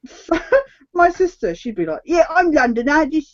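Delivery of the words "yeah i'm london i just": hint of imitated Cockney accent; lightly hammed-up Cockney; mock Cockney. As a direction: imitate a sister putting on Cockney. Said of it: "she was Cockney and stuff".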